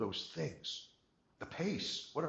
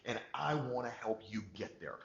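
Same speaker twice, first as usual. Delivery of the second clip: louder, confident rally speech; certain, motivating; 2 semitones higher, 5 dB louder than usual. Shown as a demonstration. Salesperson rallying a client with loud confident certainty. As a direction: pump the room up with certainty. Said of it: "You tell them with certainty".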